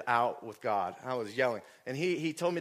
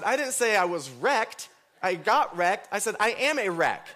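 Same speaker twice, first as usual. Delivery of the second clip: loud, high insistence on "am"; exasperated correction; 8 semitones higher, 6 dB louder than usual. Retold or imitated. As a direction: correct the listener, punching "I AM a wreck". Retold correction of wife's misunderstanding.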